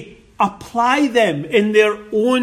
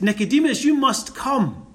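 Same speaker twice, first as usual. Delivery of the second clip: a light, lifted asking tone; mock polite request; mild request; 4 semitones higher, faster than usual. Shown as a demonstration. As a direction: ask gently, as a mere request. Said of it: "a mere simple statement of request".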